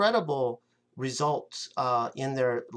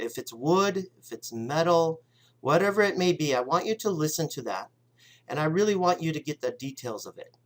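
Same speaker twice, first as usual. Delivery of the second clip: guided visualization. Acted. Leads a visualization.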